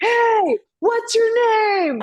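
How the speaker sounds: high goofy dog voice asking a name; cartoon dog being friendly. Retelling dog voiceover video, high goofy dog. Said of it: "he's like".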